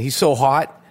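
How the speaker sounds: mock Boston fan voice; put-on Boston accent. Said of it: "That's my Boston accent again".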